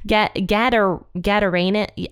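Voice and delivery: Gadarena- sounded out haltingly; halting pronunciation attempts. Real, not acted. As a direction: try out Gadar- syllable by syllable. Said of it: "I think it is Gadarena".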